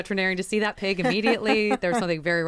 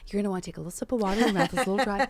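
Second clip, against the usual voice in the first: director voice; faster than usual. Retold or imitated. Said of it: "How many times would you hear this".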